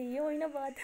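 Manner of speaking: words broken up by laughter; giggling retort; laughing. Acted. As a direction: tease while laughing. Aliya teases through laughter.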